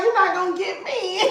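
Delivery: mock protest through laughter; laughing retelling. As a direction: say it while cracking up. Laughing retold dodge of the car.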